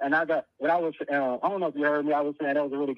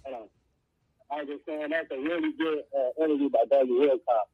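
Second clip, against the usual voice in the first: muffled phone line breaking up; entering a tunnel. Real, not acted. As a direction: caller fading out in a tunnel. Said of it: "it sounds like he's in the tunnel".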